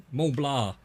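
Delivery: a laughing repeat of Mont Blanc in an Australian accent, "mol blah". Shown as a demonstration. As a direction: lean into the Aussie twang on Mont Blanc. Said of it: "But with my accent".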